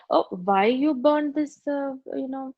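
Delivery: complaining husband. Retold or imitated. Husband scolding wife over burnt curry, mild grumble. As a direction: drag out the complaint. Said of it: "My husband would say".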